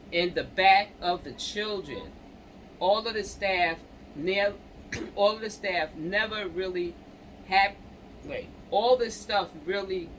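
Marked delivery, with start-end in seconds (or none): 2.8-10.1 throat catching on the words; choking up. Real, not acted. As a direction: voice catching, struggling to get words out. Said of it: "I don't know why I'm choking".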